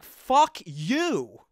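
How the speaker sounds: hammed-up whiny rage; mock angry Anakin. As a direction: spit it out like a tantrum. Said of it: "it's just like".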